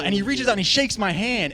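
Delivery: usual speaking voice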